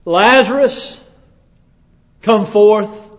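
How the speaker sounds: loud, high call into the tomb; commanding shout. Acted. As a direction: call the dead man out with full force. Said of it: "and he shouts into it".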